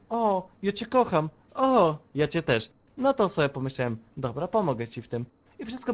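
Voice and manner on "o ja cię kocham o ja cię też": mocking lovebird exchange; udawane gołąbeczki. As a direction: mimic two sweethearts, drawn out. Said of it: "byliście takimi gołąbeczkami". (prześmiewczo, jak zakochana para)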